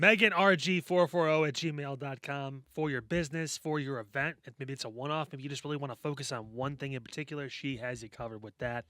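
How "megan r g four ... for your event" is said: slow emphatic plug. Acted.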